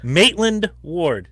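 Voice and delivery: slow, drawn-out name; savoring. Pretend. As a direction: linger on the name lovingly.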